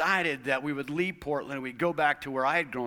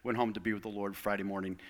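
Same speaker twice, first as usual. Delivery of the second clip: breaking bad news; 3 semitones lower than usual. Real, not acted. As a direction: let the voice sink as you share the loss. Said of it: "I have some sad news".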